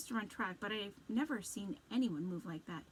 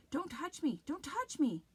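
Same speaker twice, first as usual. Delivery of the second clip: higher panicked yell; 7 semitones higher, 5 dB louder than usual. Acted. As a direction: scream to be let go. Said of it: "Z yells".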